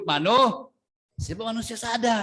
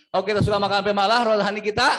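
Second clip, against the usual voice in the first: quicker, louder repeat of the line; faster repeat; 4 dB louder, faster than usual. Shown as a demonstration. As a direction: push it faster the second time. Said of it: "Saya ulang". (ulangi lebih cepat dan keras)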